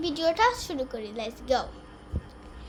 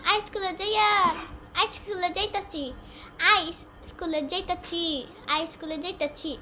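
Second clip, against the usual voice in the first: put-on Old Dhaka dialect. Shown as a demonstration. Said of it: "এটারে কয় পুরান ঢাকাইয়া".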